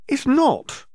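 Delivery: put-on high, loud childish protest; a little sister insisting loudly; indignant shout. A narrator's reading. Columba protests to Draco.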